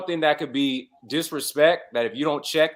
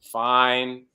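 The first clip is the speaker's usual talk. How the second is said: short, flat-toned "Fine"; curt fine; 2 semitones lower than usual. Shown as a demonstration. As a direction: clip "Fine" like you're annoyed. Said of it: "there's a difference between".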